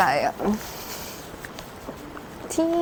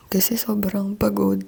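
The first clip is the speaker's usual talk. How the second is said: whispering. Real, not acted. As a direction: whisper so no one wakes. Early morning hotel room whisper.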